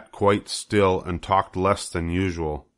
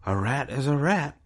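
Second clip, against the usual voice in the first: Charlotte the spider; 7 semitones higher than usual. Acted. Charlotte speaks.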